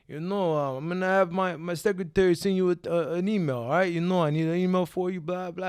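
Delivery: lightly voiced Rocky-style impression; a hint of movie-boxer voice; Sylvester Stallone. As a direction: imitate the action star, halting and casual. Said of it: "Make sure you do his voice".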